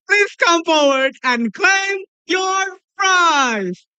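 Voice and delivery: high, slow, shouted announcement; hyped giveaway announcement. Real, not acted. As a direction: call it out big for the last winner. Final winner, hyped announcement.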